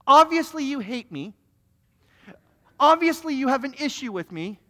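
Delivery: hammed-up accusation, OBVIOUSLY loud and high; accusing. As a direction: hit each "obviously" hard, then pause before the next charge. Acted accusing confrontation in the foyer.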